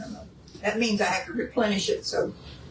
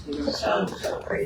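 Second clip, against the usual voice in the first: whispering. Real, not acted. Admiring strawberries up close.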